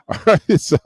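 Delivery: real laughter while calling out a friend; laughing. Real, not acted. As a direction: laugh through the words at a friend. Laughing at Pat on camera.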